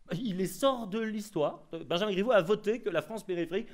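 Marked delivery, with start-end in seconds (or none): 0.1-1.7 much higher, slow, every word weighed; indignant, deliberate punch; slow emphatic outrage. Real, not acted. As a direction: hammer it home slowly. Indignant emphasis on elites' contempt.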